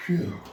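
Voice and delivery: loud puff of breath; winded phew. Real, not acted. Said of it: "I just get so winded".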